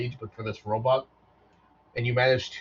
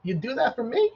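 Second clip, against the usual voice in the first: high, grateful robot question; a touched little robot; 12 semitones higher than usual. Acted. Robot asking Vaughn to carry him, high voice.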